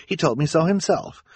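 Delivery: high impatient scolding, settling as it ends. Acted. Esme dismisses the children's accusation, impatient. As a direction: brush the objection aside impatiently. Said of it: "Esme said impatiently".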